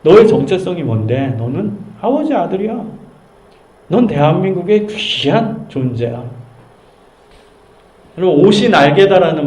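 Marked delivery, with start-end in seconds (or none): 0.0-6.2 gentle affirming. Retold or imitated. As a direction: tell the child they are precious. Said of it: "정체성을 불어넣어주는 거예요".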